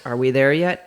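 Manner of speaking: put-on low-pitched quote of a child; low kid impression; mock child's question. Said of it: "why does she sound like that".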